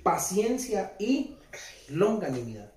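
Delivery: y drawn out slowly with a rise between paciencia and longanimidad; stress on y. Shown as a demonstration. Preacher showing the church the y that separates two words, slowly stressed. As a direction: hold the y and let it rise. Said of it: "Hay un "y" que separa esas dos palabras".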